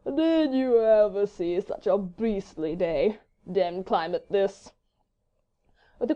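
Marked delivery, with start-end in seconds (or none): 0.1-4.7 slow drawl, half yawning; stifled yawn. A narrator's reading. Bored gentleman complaining of beastly weather, stifling a yawn. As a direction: draw it out lazily through a suppressed yawn. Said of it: "smothering a slight yawn".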